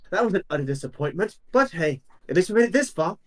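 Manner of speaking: fast, bitter sarcasm. Acted. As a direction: spit it out sourly. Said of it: "claws up the tower and goes".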